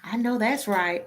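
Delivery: "I know that's right" said with a hint of a borrowed twang; mock put-on twang. Mimicking a coworker who puts on a twang with her. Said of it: "Why you can't just say".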